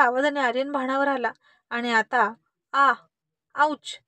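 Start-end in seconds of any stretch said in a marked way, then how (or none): 2.7-4.0 a faked yelp of pain as he sits down; pained ouch. A narrator's reading. Boy feigning hurt to get attention, mock yelp. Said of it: "म्हणून तिथेच खाली बसला".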